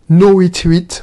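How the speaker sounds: put-on English motto in a heavy French accent; thick French accent. Host repeating his English motto to viewers, heavy French accent. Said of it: "mon accent à couper au couteau".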